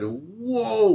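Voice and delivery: high mock surprised whoa; a big amazed whoa as he sees the set; retold whoa. Colleague sees the production, amazed whoa. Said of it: "Well, he didn't say".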